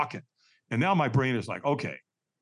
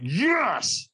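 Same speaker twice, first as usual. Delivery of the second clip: higher, more forceful retold yes; stronger yes; 6 semitones higher than usual. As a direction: push the yes harder, drawn out.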